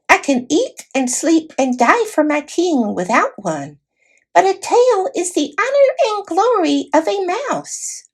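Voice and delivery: high squeaky voice of a dignified little mouse; a tiny knight, formal and put out; proud mouse knight. A narrator's reading.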